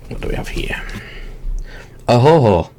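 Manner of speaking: hearty pirate laugh. Real, not acted. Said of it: "I sounded like a drunken pirate then".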